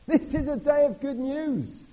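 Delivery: high, loud, slow proclamation; proclaiming. Acted. Preacher proclaims good news to the congregation, loud and slow. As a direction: announce it like a herald. Repeat, louder and higher.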